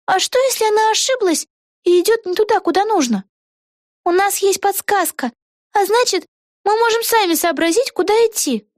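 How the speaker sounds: put-on excited young witch thinking aloud; Vega's voice. A narrator's reading. Вега в чтении. (высокий голос юной ведьмы Веги)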